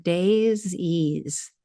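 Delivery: "daisies" stretched slowly into day-zeez; word drawn apart. Shown as a demonstration. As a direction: sound out "daisies" slowly as two words, days ease. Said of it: "Listen to the word".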